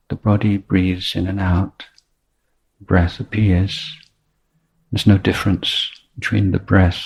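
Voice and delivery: measured, unhurried meditation teacher with long pauses; spacious meditation instruction, letting each phrase settle; guided meditation. Real, not acted. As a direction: guide the breath gently, phrase by phrase.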